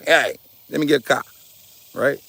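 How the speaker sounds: put-on quick, half-hearted New York accent, "car" said as "Ka"; tossed-off New York cab-caller impression; lightly put-on New York accent; bad New York accent. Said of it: "I know it's a bad accent".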